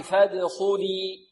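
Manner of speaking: فادخلي slow, with a full dark خ; heavy kha. Shown as a demonstration. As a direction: bounce the د and thicken the خ in فادخلي. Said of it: "والخاء مفخمة".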